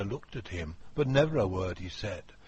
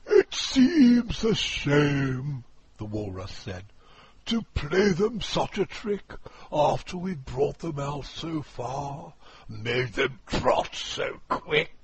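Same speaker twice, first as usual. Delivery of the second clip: high, loud, booming walrus; a pompous walrus declaiming loudly; 5 semitones higher, 6 dB louder than usual. Acted. Walrus voiced.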